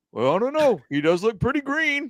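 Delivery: put-on very high, old-man puppet character voice. Joining a bit about the old guys in the balcony, doing a Muppet impression. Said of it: "want to see my Muppet impression".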